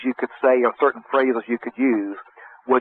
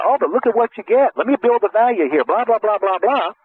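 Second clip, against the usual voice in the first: defensive value push; 9 semitones higher than usual. Retold or imitated. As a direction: rush to justify the price. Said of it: "instead of coming back and saying".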